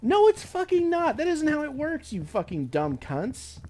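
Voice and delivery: high, loud furious shout; furious retort. Retold or imitated. Telling the agency off, high furious shout. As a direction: scream it at them, slowing on the insult. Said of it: "it's like".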